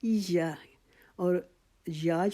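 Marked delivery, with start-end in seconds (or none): 0.0-0.5 ایا whispered with یا stretched for two beats; whispered long یا. Shown as a demonstration. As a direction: breathe out ایا, holding the یا. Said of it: "ایک الف کے جتنا".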